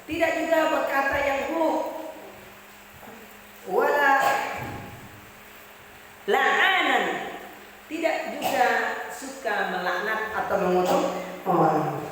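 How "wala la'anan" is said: Arabic recitation. Retold or imitated. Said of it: "Anas bin Malik radhiyallahu anhu berkata".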